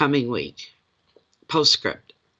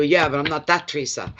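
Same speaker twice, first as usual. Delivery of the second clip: laughing quote; 2 semitones higher than usual. Retold or imitated. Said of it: "And then you go".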